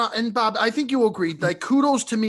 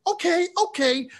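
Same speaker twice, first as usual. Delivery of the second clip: mock Bob backing down; 11 semitones higher than usual.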